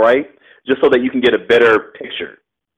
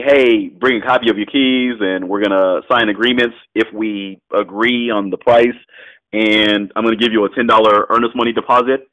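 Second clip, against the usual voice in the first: nonchalant; 2 semitones lower than usual. Shown as a demonstration. Investor telling a home seller the closing terms, nonchalant. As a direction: slip the terms in casually, no big deal. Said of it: "I say it very nonchalantly".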